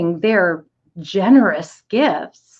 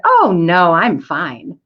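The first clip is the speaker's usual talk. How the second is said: big-smile brush-off, "oh no" pushed louder; smiling refusal; 4 dB louder, much slower than usual. Retold or imitated. Employee turning down a charity request, smiling refusal. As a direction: decline with a broad smile. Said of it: "I smiled real big at that person and said".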